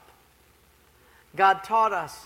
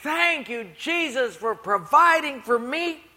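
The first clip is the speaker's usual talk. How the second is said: higher, slow thankful prayer; grateful old lady; 6 semitones higher, 5 dB louder than usual. Retold or imitated. Poor lady thanking Jesus on her porch, slow and high. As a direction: savour each word of thanks.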